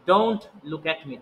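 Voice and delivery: very slow, word by word "Don't look at me"; slow model sentence. Shown as a demonstration. Teacher slowly modelling an English sentence, very slow. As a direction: spell it out slowly for the class. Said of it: "উচ্চারণটা করা উচিত আমাদের".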